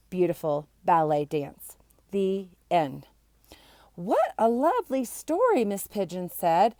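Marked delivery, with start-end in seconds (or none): 4.0-5.6 whispered praise. Acted. Teacher voiced softly.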